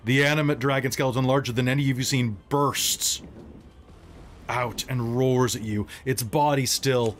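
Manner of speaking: measured, dramatic narration with long suspenseful pauses; game master's scene setting. Acted. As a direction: set an ominous battle scene, phrase by phrase.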